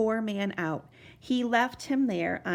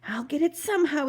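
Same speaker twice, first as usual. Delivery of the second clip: yelling; 5 semitones higher, faster than usual. Acted. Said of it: "he yelled".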